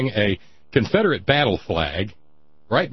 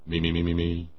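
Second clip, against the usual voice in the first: vocal warm-up; 6 semitones lower, 5 dB quieter than usual. Shown as a demonstration. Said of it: "hang on".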